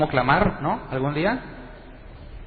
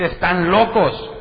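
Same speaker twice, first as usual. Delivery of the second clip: slow, louder mock disbelief; unbeliever's verdict; 4 semitones higher, 5 dB louder, slower than usual. An unbeliever walks in and judges the church, slow mock dismay. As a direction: say it like a shocked outsider. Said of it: "va a decir".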